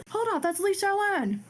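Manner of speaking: high-pitched sudden realization; mock-startled high voice; surprised recognition. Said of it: "I'm like".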